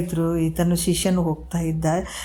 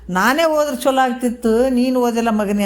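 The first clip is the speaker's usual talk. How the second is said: higher, mildly imitated lament; retold mother's wail; 5 semitones higher than usual. Mother wishes she had died before her son, mild mock wailing. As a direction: voice a grieving mother, lightly acted. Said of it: "ಅಂತ ನಮ್ಮವ್ವ ಅಳ್ತಾವೆ".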